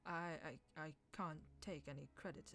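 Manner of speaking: halting, repeating the I; stuttering. Acted. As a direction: stumble over the start of each phrase. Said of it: "He stuttered".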